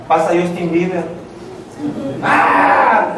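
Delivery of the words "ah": breathy imitation of a fan's scream; mock fan shriek. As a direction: give a half-voiced mock squeal. Acting out excited girls seeing a singer.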